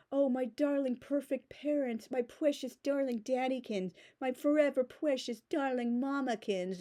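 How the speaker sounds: put-on a light parody of a doting teen; mocking adoration. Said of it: "It's not".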